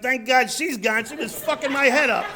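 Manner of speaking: loud, high comic venting; exasperated relief. Retold or imitated. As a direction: let it burst out once the door is bolted. Acts out relief after bolting door.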